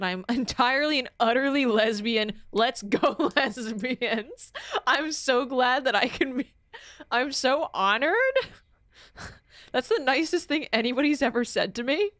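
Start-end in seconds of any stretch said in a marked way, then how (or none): 2.5-12.1 giddy, laughing thanks; laughing excitedly. Real, not acted.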